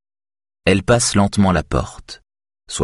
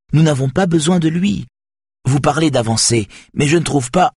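heated objection; 10 semitones higher than usual. A narrator's reading. Saga objects heatedly to boss.

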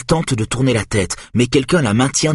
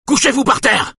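hysterical yell. Acted. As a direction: scream the order, losing control. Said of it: "hurle un homme hystérique". (cri hystérique, aigu et fort)

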